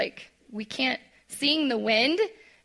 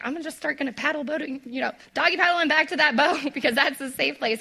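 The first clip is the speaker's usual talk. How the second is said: mock Peter; 4 semitones higher, faster than usual. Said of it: "was like".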